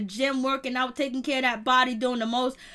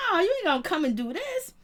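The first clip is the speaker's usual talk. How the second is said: high, fast disbelieving protest; shocked disbelief; 5 semitones higher, 4 dB quieter, faster than usual. Retold or imitated. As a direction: rush it out in shock. Voicing shocked Ryan.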